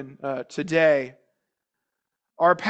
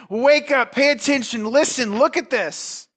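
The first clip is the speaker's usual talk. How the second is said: higher, urgent rousing call; attention-getting call; 6 semitones higher, 3 dB louder than usual. Acted. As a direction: rouse them, voice raised and pitched up. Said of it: "a word to get your attention".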